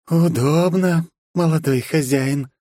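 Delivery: cold hissing layered whisper; eerie slow voice from the grave; sepulchral voice. Acted. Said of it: "загробным голосом спросила она".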